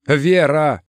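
loud, high cry of a name; calling after her. A narrator's reading. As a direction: call out as she walks away. Зовёт уходящую подругу.

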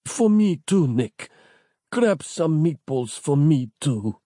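high strained pleading voice; dying man voice. A narrator's reading. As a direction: beg gently, slowly. Dying friend's last request.

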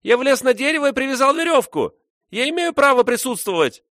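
put-on high, loud squealing boy; shrill boy's shout. A narrator's reading. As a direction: screech it like an outraged boy. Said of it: "визгливо закричал мальчик".

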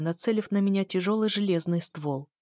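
ordinary delivery, nothing marked

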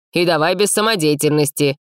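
firm insistent warning; with pressure. A narrator's reading. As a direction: press the words home. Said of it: "с нажимом произнёс Мэйн".

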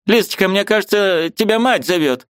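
put-on high, fussy old woman; a bustling old aunt, pitched high; old aunt's voice. A narrator's reading. Old aunt shooing the niece, high fussy voice.

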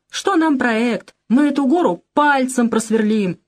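scornful retold bravado; mock boastful cries. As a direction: imitate their cocky bragging with scorn. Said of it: "Тоже кричали".

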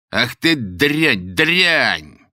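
loud, very slow furious cursing; furious curse. Acted. The man curses the old woman for the crumbs, furious. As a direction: spit the insult out in rage.

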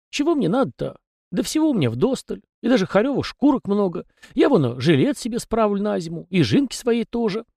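high, folksy little peasant voice; chatty house spirit. A narrator's reading. House spirit Tikhon rambling to the young master, high and folksy. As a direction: prattle on as a talkative domovoi. Tikhon mumbles about his needs.

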